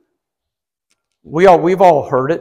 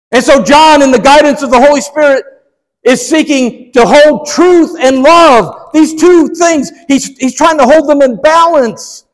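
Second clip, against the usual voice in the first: higher-pitched, emphatic pulpit delivery; preaching; 7 semitones higher, 4 dB louder than usual. Real, not acted. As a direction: drive the teaching home with raised voice. Preacher drives point home.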